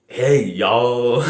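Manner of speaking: mock American drawling greeting; stereotypical American accent. Shown as a demonstration. Vlogger imitating everyone in America, stereotypical American accent. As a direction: try a cartoon American accent, half-joking. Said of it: "what's a stereotypical American accent".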